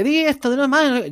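lightly voiced old catchphrase, high and slow; fans' catchphrase request. Fans asking him to say his old line, mild put-on voice. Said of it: "la gente me pide".

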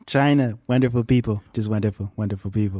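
mock presidential praise in short phrases; Donald Trump. Co-host joining in praising China, Trump impression. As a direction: praise them in bullet points. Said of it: "Donald Trump s-, talks in, like, bullet points".

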